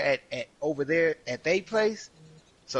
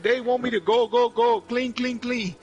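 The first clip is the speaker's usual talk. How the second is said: high, loud mock chant of go and clean; a lively impression, pitched well up; imitating the African lady; 9 semitones higher, 4 dB louder than usual. Coworker mimicking a lady who mocked lazy teammates, high voice. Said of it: "She was funny as fuck".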